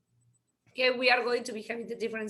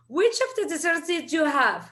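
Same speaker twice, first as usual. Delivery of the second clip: quick repeat; 4 dB louder, faster than usual. Shown as a demonstration.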